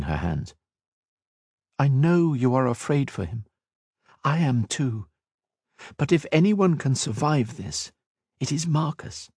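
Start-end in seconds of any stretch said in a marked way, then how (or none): 1.8-9.3 gently reassuring, quieter; calming, soft. Acted. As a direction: soothe a frightened friend. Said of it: "Her calming words".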